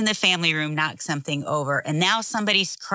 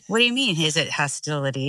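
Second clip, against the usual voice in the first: a little hostility; faster than usual. Real, not acted. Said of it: "There's a little hostility there".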